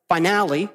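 "Finale" fumbled, sounded out uncertainly; botched pronunciation. Real, not acted. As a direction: try and fail to pronounce "Finale". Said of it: "No, still not right".

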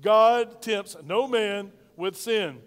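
slow and loud, leading the congregation; booming unison with the church; loud call-and-response. Shown as a demonstration. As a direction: say it big and slow so everyone joins in. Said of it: "Say that with me".

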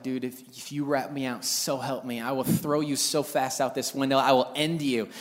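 low, hushed menace, retold; deadly threat. Boy warns brother while dad is downstairs, low menace. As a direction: threaten under your breath, deadly serious. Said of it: "that death look".

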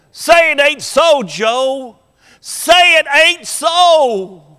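put-on a boy's high, pleading cry, slowing on the last line; tearful little boy. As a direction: beg your fallen hero like a heartbroken child. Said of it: "And the tears are coming down his face".

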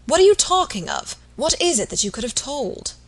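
startled urgency; alarmed. A narrator's reading. Robert alarmed by confession.

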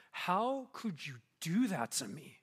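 slow, wounded accusation; acted indignation without shouting; mad, hurt demand. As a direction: draw out each word in disbelief. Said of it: "I'd be mad".

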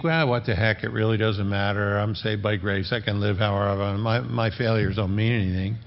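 mildly dismissive, offhand and low; casual, careless brush-off; cavalier. Acted. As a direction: shrug it off like it hardly matters. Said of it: "have a cavalier attitude".

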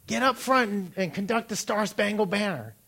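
a hint of a band teacher dad; father calling. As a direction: bark the order from far off. Dad orders from press box.

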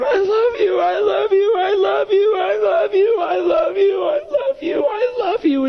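imitating a woman screaming through sobs; crying scream. Six-year-old mind hugging her new father, imitated crying scream. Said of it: "just screaming, hugging him, going".

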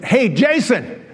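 drawn-out hail from the doorway; acted friendly holler; calling out. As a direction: slowly call across the street. Calling out to the kid.

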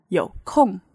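空 in 有空 dropping sharply, fourth tone; fourth tone demo. Shown as a demonstration. Teacher showing students the fourth tone of 空, falling hard. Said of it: "You have to say it the fourth tone".

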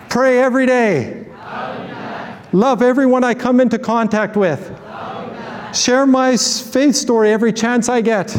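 rally the church with each promise; excited declaration. Acted.

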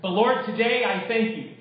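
earnest, measured closing prayer. Acted. Pastor praying for the congregation, earnest and calm. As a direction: pray on behalf of the congregation.

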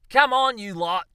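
loud, high call up the trees; exasperated shout. Acted. Australian Charles Darwin shouts at the monkeys in the trees, loudly. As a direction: bellow at the monkeys.

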